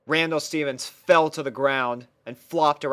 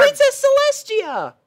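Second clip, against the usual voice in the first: very high, louder excited call; princess calling; 8 dB louder than usual. Acted. Twilight calls out to Celestia.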